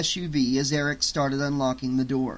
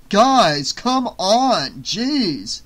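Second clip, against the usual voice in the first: loud, high yell across the lot; raised voice, calling to friends over there; impatient yell; 7 semitones higher, 7 dB louder, much slower than usual. A narrator's reading. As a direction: yell it in exasperation. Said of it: "yelled Eric".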